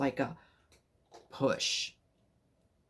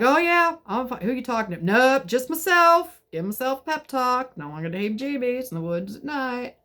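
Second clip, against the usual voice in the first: high cheerful; 7 semitones higher, 4 dB louder than usual. Retold or imitated. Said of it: "I'm like".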